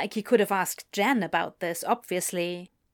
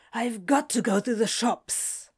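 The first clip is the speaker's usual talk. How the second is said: breathless, words between breaths; out of breath while rushing off; panting. Acted. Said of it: "he panted".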